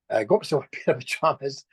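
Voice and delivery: laughing through the line; repeated with a real laugh in it. Real, not acted. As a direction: chuckle as you say it, amused. Laughing about his pajamas.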